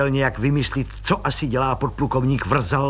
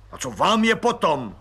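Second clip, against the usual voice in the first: barked; 6 semitones higher than usual. Acted. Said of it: "vyštěkl plukovník".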